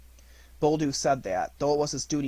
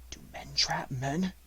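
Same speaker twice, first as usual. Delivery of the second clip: hushed wolf whisper; 5 dB quieter than usual. Acted. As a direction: breathe the question. Wolf speaks in low voice.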